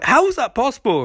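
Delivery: high-pitched, baffled mock question; imitating a stunned onlooker, voice leaping up; mock astonishment. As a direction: ask in hammed-up disbelief.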